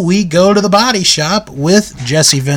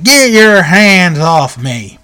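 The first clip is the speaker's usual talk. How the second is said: slow mock warning; Uncle Elmer; 4 dB louder, slower than usual. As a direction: imitate a big wrestler, drawing out each word. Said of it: "Uncle Elmer's like".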